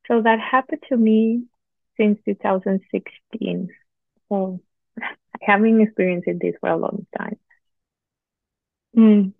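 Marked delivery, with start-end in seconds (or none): 4.3-7.4 talking between sips of coffee; words around a sip of coffee; while sipping a drink. Real, not acted. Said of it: "Sorry, I'm sipping my coffee". 9.0-9.3 mm through a sip of coffee; while sipping a drink. Real, not acted. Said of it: "Sorry, I'm sipping my coffee".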